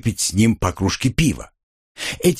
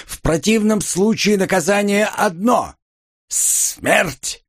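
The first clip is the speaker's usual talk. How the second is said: lightly voiced monster, higher pitch; a hint of a hissing, menacing creature; monster's hiss; 9 semitones higher than usual. A narrator's reading. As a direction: pronounce the sentence as a monster, hissing at the end. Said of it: "прошипел монстр".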